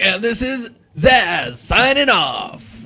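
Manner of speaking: mock radio host. Shown as a demonstration. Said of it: "I don't got radio voice".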